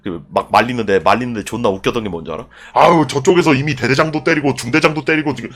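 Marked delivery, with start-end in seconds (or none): 2.7-5.5 pleading policeman. Retold or imitated. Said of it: "막 이러면서 막 경찰들이 막 말려".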